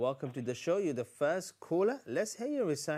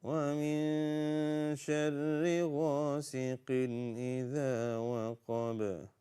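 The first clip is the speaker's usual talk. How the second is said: Quran recitation. Shown as a demonstration. Leads Surah Al-Falaq recitation.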